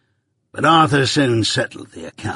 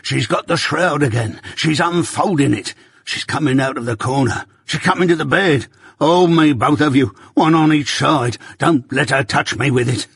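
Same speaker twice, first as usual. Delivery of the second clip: high, frantic screams of terror; terrified screaming; 4 semitones higher than usual. Acted. Arthur at five in the morning screams at the ghost, terrified. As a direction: scream as the ghost comes for you. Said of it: "and screams out".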